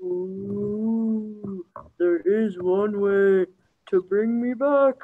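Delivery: slow, drawn-out ghostly voice; haunting voice. Acted. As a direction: moan it like a ghost in stone. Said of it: "a ghostly voice emanated from the statue".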